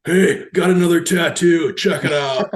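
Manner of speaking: hammed-up loud, high brag; mock excited announcement. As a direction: call it out like a proud kid. Acting out son showing off tattoo.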